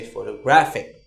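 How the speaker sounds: photographic with gra stressed. Shown as a demonstration. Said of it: "you say photographic".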